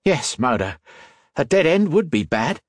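wry reply, rising in pitch; quip. A narrator's reading. Lizzie teasing Modo as they flee, wry quip. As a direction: toss it back as a dry joke. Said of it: "Lizzie quipped".

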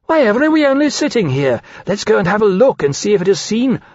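high-pitched, eager dragon voice; impatient urging. A narrator's reading. Impatient dragon urges going to look.

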